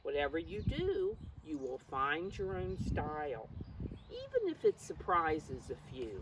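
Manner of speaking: bouncy storybook voice for a class; reading to children. Acted. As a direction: read it like a picture book to little ones. Reads picture book to class.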